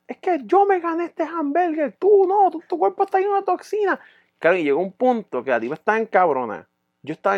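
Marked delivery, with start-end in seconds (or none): 0.1-4.0 much higher, put-on superior woman; haughty girlfriend voice. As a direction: lecture him like his ex. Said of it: "ella me decía". (voz muy aguda y arrogante de la novia)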